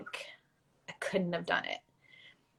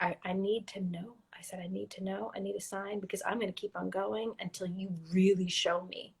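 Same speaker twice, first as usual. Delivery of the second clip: hushed prayer; 6 dB quieter than usual. Retold or imitated. Retelling her own private prayer.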